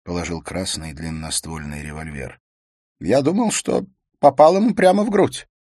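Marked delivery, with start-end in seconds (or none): 3.0-5.5 robot voice. A narrator's reading.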